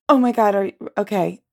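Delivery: nervous, flustered reassurance; alarmed, then hesitantly supportive; terror in voice. Real, not acted. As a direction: try to encourage through rising panic. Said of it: "The terror in my voice".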